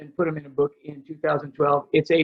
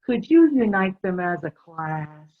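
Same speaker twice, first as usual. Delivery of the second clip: slow, lightly put-on parent voice; parents' request. Parent asking the retreat leader, mildly pleading. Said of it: "the parents had expectations".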